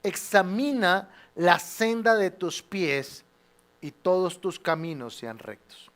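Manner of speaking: slow, deliberate reading of the verse; slow scripture reading. Shown as a demonstration. Pastor reading the verse aloud with the congregation, slowly. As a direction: read the verse slowly for all to follow. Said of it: "lea conmigo".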